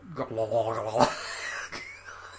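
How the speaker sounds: low, throaty mock gurgle; imitated gurgling. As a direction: gurgle like the man sniffing seats. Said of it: "noises that were half gurgling".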